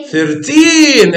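ثيرتين said slowly with the final n clear; careful thirteen. Shown as a demonstration. Teacher modelling ثيرتين for students, slow and clear. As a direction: stretch out ثيرتين so the n is heard, not ثيرتي. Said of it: "اوعى تقول لي ثيرتي".

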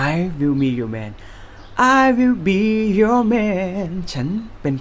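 sweet. Shown as a demonstration. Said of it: "หวานไหมครับ".

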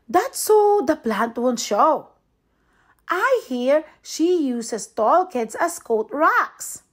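put-on lively read-aloud for children; storybook narration. A narrator's reading. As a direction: tell it like a bedtime story to kids. Reads picture book to kids.

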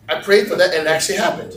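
quick, astonished realization; dawning amazement. Acted. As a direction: let the realization sink in, speaking up. Same reaction, building in astonishment.

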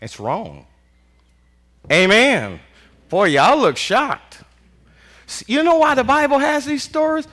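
ordinary talk

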